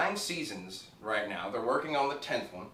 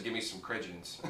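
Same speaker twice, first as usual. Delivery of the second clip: lightly imitating Ricky, "credence" said softer; a hint of a dumb guy botching "credit" into "credence"; Ricky's dumb misspeak; 2 semitones lower, 6 dB quieter than usual. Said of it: "He says".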